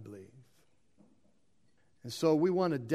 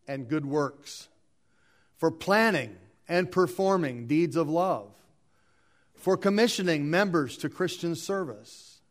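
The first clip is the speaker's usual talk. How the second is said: deliberate liturgical reading with pauses; meditative reading; 6 dB louder than usual. Acted. Reader reads the next slide at the dedication, meditative. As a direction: read the petitions out firmly, phrase by phrase. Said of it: "let's read it slow and meditative".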